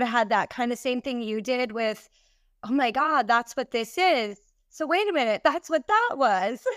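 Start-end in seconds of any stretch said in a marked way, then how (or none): 2.6-6.6 mild mock amazement, pitch lifting; lightly re-enacted revelation; retold sudden realization. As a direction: act out the penny dropping, ending on a laugh. Acts out her moment of realization.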